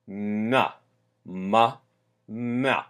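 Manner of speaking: ma said soft, lips pursed, tongue up; palatalized M. Shown as a demonstration. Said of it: "on the soft consonants".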